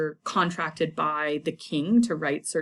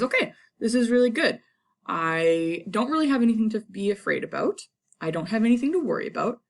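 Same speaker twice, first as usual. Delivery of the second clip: quick, higher, pleased with himself; mock-gleeful Macbeth; 5 semitones higher, faster than usual. Teacher voicing a gleeful Macbeth to the class. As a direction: rattle off his relief like a smug kid.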